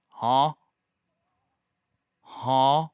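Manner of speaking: short, loud questioning "huh"; blurted, puzzled meme-cat "huh?"; confused cat meme. Retold or imitated. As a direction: imitate a meowing cat asking a question. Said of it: "like it's asking a question".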